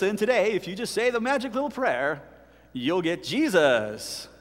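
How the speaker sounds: lightly voiced sales pitch, slowing on the last words; mock advertiser. Preacher parodying a packaged gospel offer, mock sales pitch. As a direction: sell it like a product offer. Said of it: "package him up in a little package and say".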